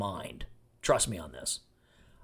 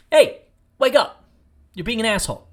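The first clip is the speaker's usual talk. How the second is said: calling out a troll; 8 semitones higher, 8 dB louder than usual. Retold or imitated.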